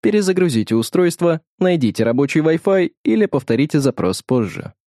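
polite chiming assistant reading instructions; Alisa voice assistant. Acted. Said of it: "прозвенел колокольчиком голос Алисы". (голос помощника Алисы из умных часов)

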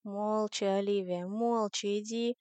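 mildly weary telling-off; a touch of tired exasperation. Acted. Alex hushes Olivia as he helps her, mildly tired. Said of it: "устало сказал Алекс".

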